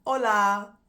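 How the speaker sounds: Hola said loud, no H sound, Spanish vowels. Shown as a demonstration. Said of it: "you don't pronounce the H".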